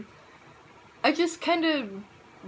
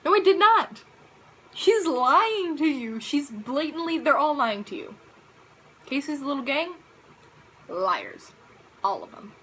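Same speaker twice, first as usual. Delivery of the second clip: put-on indignant kid; 3 semitones higher, 3 dB louder than usual. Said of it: "and I was like".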